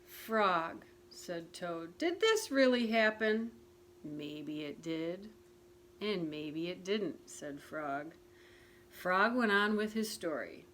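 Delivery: put-on gentle storybook narration for children; reading a picture book aloud to listeners; story reading. A narrator's reading. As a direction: read it like a bedtime story. Reads Frog and Toad story aloud.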